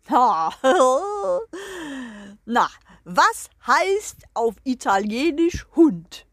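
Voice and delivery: crowing rooster voice, loud and pompous; proud rooster. Acted. The rooster greets the hens and the guest, proud crowing voice. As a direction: strut and crow like a proud rooster.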